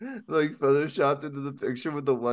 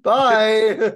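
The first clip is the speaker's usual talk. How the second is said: cheery bye; 8 semitones higher, 9 dB louder than usual. Retold or imitated. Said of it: "be like".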